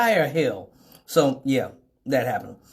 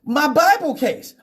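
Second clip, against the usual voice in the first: high exasperated groan; exasperated friend; 10 semitones higher, 4 dB louder than usual. Retold or imitated. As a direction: drag out the words like you're done with him. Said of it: "Platinum's like".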